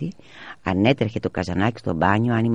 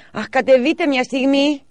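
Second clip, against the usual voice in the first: high, slow pleading call; 5 dB louder than usual. A narrator's reading. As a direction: beg him to come down. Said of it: "παρακάλεσε η μαμά". (η μητέρα παρακαλεί, ψηλά και αργά)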